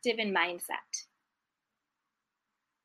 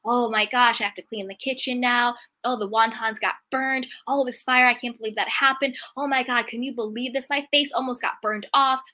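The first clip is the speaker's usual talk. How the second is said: mock complaining; 3 semitones higher than usual. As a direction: act out the complainer without overdoing it. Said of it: "they're complaining".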